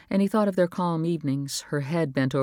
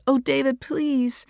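higher, urgent plea; pleading wife; 10 semitones higher, slower than usual. A narrator's reading. Wife begging husband to talk, pleading. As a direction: beg him to open up.

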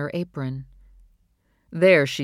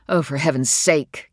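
exasperated; 5 dB louder than usual. Acted. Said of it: "pushed to the limit of her patience".

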